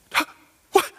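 high, loud disbelief building to a shout; stunned stammer bursting into a shrill cry of amazement; excited shout. Retold or imitated. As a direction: act out a friend shouting in giddy shock. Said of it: "he just shouts it out".

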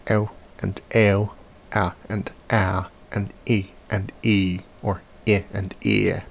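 each diphthong slow, short then long. Shown as a demonstration. Teacher contrasting short and long diphthongs. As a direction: clip it, then hold the same glide. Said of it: "short and long diphthongs".

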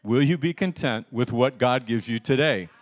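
loud, insistent preacher's question; emphatic repeat. Real, not acted. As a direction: press the question to get a stronger answer. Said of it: "That's very weak".

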